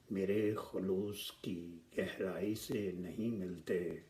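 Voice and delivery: measured mushaira delivery, lines drawn out with pauses; ghazal recitation. Acted. Poet presenting his ghazal to the gathering, measured recitation. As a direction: recite the couplets slowly, lifting the openings.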